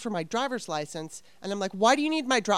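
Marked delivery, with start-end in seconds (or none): 1.7-2.6 mildly snippy retold question, pitched up; bitchy challenge. Questioning the tow guy over the license, bitchy. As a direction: challenge him with a touch of bitchiness. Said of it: "I was being such a bitch".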